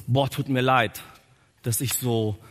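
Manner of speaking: low, soothing sympathy; mock gentle apology. Imagined gentle apology, then contradicted.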